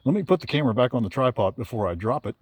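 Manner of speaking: shivering from cold. Real, not acted. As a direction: voice trembling with cold. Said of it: "I'm shaking violently".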